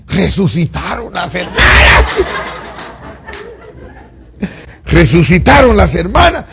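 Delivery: high, loud exultant cry; joyful shout. Retold or imitated. The crying congregation hears the sisters are alive, shouting joyfully. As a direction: shout the miracle news with joy.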